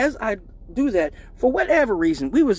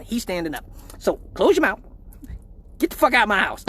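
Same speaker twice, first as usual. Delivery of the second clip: high mocking mom scolding; high hammed-up mom taunt; 4 semitones higher than usual. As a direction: tease like his mom catching them leaving. Mom voiced kicking out.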